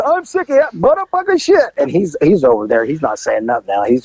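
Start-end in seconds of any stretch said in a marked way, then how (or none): 0.0-1.7 high, furious outburst; enraged woman. Retold or imitated. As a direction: spit it out in rage. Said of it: "she goes".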